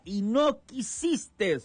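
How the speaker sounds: a sorrowful exclamation, slow and high; exclaimed lament. Retold or imitated. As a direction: mourn the refusal, slowly. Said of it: "dice esta pronunciación con signos de admiración".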